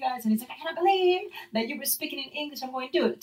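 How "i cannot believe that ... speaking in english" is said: mildly indignant imitation, raised pitch; mad, retold. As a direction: imitate his indignation in a higher voice. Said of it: "He got so mad at me".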